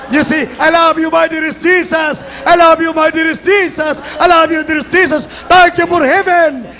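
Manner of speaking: high, ringing revival shout; full-force fervent worship cries; exultant preaching. Real, not acted. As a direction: proclaim praise to a vast crowd. Preacher exults over huge crowd.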